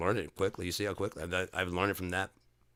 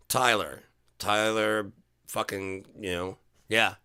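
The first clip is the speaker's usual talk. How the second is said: louder, slow, relishing the name Tyler; mock delighted boss; 3 semitones higher, 4 dB louder, slower than usual.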